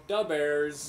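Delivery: loud mock Chicago accent; caricatured Chicago accent. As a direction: punch it like a Chicago sports fan. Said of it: "Chicago's got its own accent".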